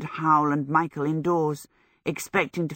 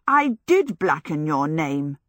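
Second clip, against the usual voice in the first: protesting. Acted. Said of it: "Sophie protested".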